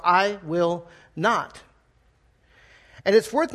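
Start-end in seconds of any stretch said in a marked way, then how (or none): 0.1-1.6 very slow, clipped-off "I will not."; abrupt refusal. Retold or imitated. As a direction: slam the door on the request. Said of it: "just very abrupt".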